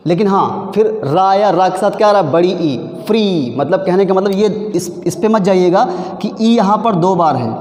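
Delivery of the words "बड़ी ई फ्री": long drawn-out ई, then फ्री with its vowel held; slow फ्री, one long vowel; stretched vowel demo. Shown as a demonstration. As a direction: stretch the ई in फ्री so it can be counted. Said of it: "जब आप फ्री को बोलोगे".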